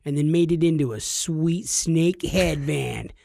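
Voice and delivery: tongue-in-cheek action narrator; playful dramatic narration for the listeners; mock-heroic storytelling. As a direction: tell it like a tall tale of a legendary hero. Mock-heroic tale of cohost's deed.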